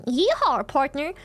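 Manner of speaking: lightly voiced American cowboy twang. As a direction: put on a hint of a Wild West cowboy. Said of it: "imagine in English, someone".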